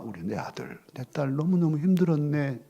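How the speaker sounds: put-on soft whispered comfort to a child; tender whisper. Mother whispering comfort to her hurting child, tender whisper.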